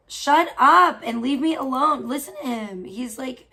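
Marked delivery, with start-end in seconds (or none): 0.1-2.1 loud, fed-up shout at the cat; fed-up yell. Real, not acted. Cat whining at her.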